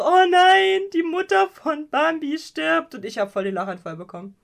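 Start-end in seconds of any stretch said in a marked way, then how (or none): 0.0-3.0 mock dismay. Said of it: "also die anderen so".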